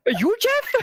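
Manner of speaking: high, squeaky-pitched goblin question; puzzled goblin, voice shooting up high. Retold or imitated. Goblin questions the one pointed out, high puzzled goblin voice. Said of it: "And the G M's like".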